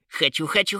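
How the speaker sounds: little troll yelling, voice rising; loud yell. A narrator's reading. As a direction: shout it like a greedy child. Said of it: "заорал благим матом троллёнок".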